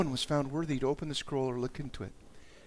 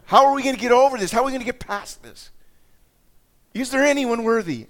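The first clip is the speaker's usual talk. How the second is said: high, desperate cry for help; loud lament; 9 semitones higher, 9 dB louder than usual. Acted. Preacher acting out heaven's search for someone worthy, lamenting loudly. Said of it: "Like this lament".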